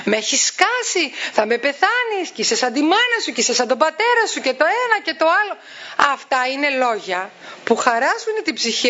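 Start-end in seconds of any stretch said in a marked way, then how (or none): 0.0-5.6 higher-pitched imitation of a nagging parent; hint of exasperated scolding; mock yelling parent. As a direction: mimic a fed-up mother scolding, not full volume. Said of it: "Όχι να φωνάζουμε και να λέμε".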